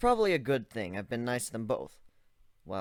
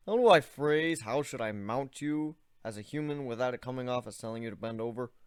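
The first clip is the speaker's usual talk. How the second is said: lightly voiced awkward young man. Narrator voices Ivan.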